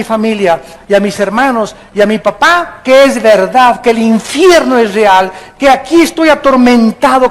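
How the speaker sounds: mild mock cry from the tormented rich man; pleading cry. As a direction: plead insistently, building then easing off. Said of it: "le gritaba a Abraham".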